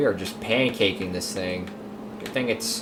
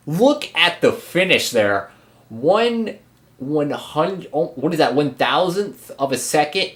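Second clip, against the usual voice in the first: higher, louder amazed rush; stunned by the finish; excited; 5 semitones higher, 4 dB louder than usual. Real, not acted. Marvelling at photo finish.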